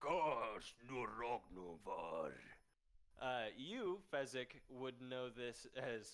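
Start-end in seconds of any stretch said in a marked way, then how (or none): 0.0-2.3 deep, booming, bellowing voice. Voicing a figure leaning on a door frame: deep bellowing voice. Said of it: "says in this deep, bellowing language".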